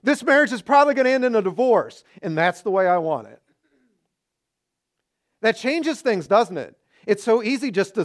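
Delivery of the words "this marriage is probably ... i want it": fast loud complaint dissolving into a laugh; mock complaint, laughing. Shown as a demonstration. Preacher acting out a complaining spouse, laughing at the tag. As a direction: rattle it off then laugh at the ending. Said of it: "put this phrase on the end".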